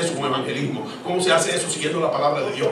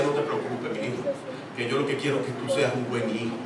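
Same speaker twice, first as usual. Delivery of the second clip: tender mother; 3 semitones lower, 6 dB quieter than usual. Retold or imitated. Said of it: "al fin decía".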